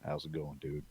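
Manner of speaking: soft, low-key impression; quiet, lightly imitated greeting; Sam Elliott. Actor having a good time in the movie, soft impression. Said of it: "you see him, he's just".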